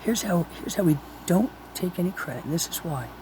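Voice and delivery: patient explaining. Retold or imitated. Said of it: "So I said".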